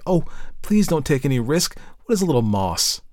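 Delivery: anxious, high-pitched entreaty; eager exclamation. A narrator's reading. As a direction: beg eagerly against the risk. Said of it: "Elsie exclaimed eagerly".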